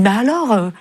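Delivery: mildly exasperated, pressing questions; a touch of angry impatience, pitch climbing; retold anger. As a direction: replay an angry demand without shouting. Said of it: "je me mets même en colère".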